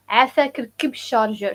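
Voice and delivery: "عافاك ركب شارجر" said fast; quick polite request "عافاك ركب شارجر"; model phrase. Shown as a demonstration. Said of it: "some people say ركب".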